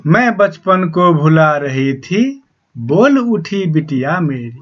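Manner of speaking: slow, measured reading of a verse; poem recitation. Acted. Teacher slowly reciting the poem to the students. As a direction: recite the lines slowly to the class.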